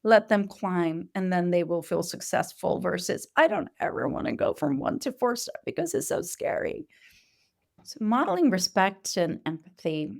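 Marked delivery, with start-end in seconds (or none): 3.4-6.9 put-on high, childlike voice of a frightened toddler; scared child. Teacher voicing a child scared of climbing: high, timid child voice. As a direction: speak as a small child afraid of the big step. Child afraid of big steps.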